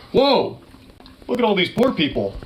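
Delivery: a hint of a gawking tourist, high on whoa; mocking gawker. Host mocking the YouTuber ogling poor people, high gawking whoa. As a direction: parody his fake amazement. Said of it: "him going".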